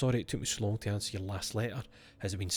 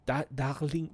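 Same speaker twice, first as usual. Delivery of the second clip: higher French-accented darling; 4 semitones higher, slower than usual. Shown as a demonstration. Tweaking the word darling, French accent. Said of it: "how a French person would say darling".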